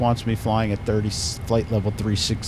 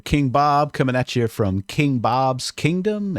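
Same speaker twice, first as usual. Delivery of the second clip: louder, grand royal address; warm regal boom; 3 semitones higher, 4 dB louder than usual. Acted. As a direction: greet your loyal subjects like a king. King persona greeting his subjects.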